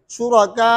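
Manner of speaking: शुरका held long without sounding a final w; no audible waw. Shown as a demonstration. Teacher correcting the ending, long madd without waw. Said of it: "वाव नहीं पढ़ेंगे".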